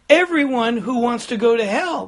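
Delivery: loud retold pulpit announcement; booming voice. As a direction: imitate a pastor booming from the pulpit. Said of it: "the pastor boomed in a loud voice".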